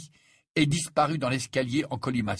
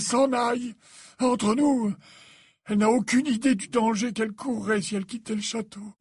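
higher, measured confiding voice; wise old headmaster; 10 semitones higher, 3 dB louder than usual. A narrator's reading. Dumbledore confiding in Harry about Trelawney, measured and higher. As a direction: confide gently in a trusted pupil.

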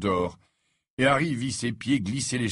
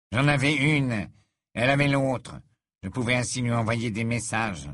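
put-on nervous young villain. Narrator voices Malfoy.

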